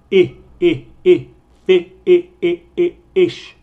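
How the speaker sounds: I, i, i sung out loud and high, short vowel repeated; isolated vowel drill. Shown as a demonstration. Teacher isolating the vowel sound, loud and emphatic. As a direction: pull the vowel out of fish. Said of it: "con énfasis en el vocal".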